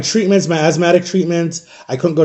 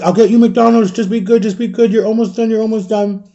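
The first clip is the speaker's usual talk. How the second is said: higher-pitched, singsong reassurance; coaxing mom; 5 semitones higher than usual. Retold or imitated. Mom promising her crying child McDonald's, coaxing. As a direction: imitate a mother soothing her child.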